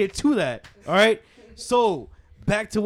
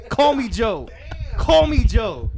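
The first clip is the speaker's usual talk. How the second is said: laughing; 4 semitones higher, 6 dB louder, slower than usual. Real, not acted. Repeats name, laughing.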